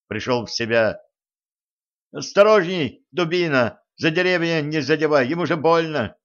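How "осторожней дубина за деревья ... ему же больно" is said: put-on high, thin boy's scolding; thin adolescent voice. A narrator's reading. Boy warning his mate carrying the stretcher, thin breaking voice. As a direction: pitch it up like a teenager telling off a mate. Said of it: "сказал чей-то тонкий, ломающийся голос".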